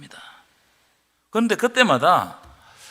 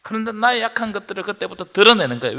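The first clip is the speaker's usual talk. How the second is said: ordinary talk, nothing marked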